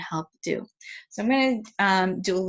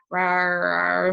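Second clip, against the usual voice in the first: mimicked dinosaur roar; 4 dB louder, slower than usual. Shown as a demonstration. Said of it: "I'm going to go".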